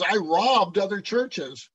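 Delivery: mildly sarcastic mock confession. Paul mock-apologising to the Corinthians for not taking money, mildly sarcastic. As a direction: apologise with pointed, insincere regret. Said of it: "he's being sarcastic".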